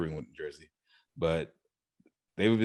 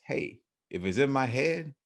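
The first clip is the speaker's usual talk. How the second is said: reckless owner's thought; 5 semitones higher than usual. Retold or imitated. Park owner deciding to build anything he dreams, rising excitement. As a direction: talk yourself into a crazy idea.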